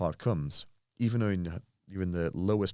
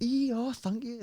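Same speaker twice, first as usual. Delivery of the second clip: put-on high thrilled old-woman voice, much higher; old lady voice; slower than usual. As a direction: play the delighted old lady, pitched way up. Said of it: "She was like".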